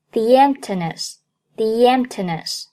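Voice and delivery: "the emptiness" with a y glide joining "the" to "emptiness"; "the emptiness" run together through a y sound, slow demo; linked with a y glide. Shown as a demonstration. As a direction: slowly link "the emptiness" as "thee-yemptiness". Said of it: "可以在两个单词中间夹一个yet的音".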